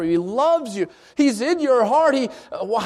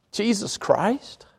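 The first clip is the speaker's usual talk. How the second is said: slow, stretched "Jesus Christ" in frustration; a person cursing slowly after hurting themselves; drawn-out exasperated curse; 5 dB quieter, much slower than usual. Retold or imitated. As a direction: drag out "Jesus Christ" like a fed-up sigh. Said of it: "why do we hear people say".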